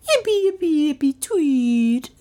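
high, chirping pet-talk squeal; high-pitched silly cooing; baby-talk admirer. A narrator's reading. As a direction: chirp it high, stretching the last word. Woman gushes baby talk at dog.

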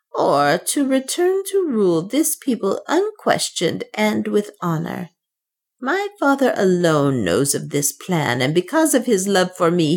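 a hint of a scheming servant woman; Soa, lightly voiced. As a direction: lightly voice the African woman laying out her plan. Soa's voice in the story.

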